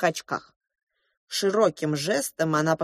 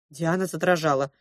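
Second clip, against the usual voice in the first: plain reading voice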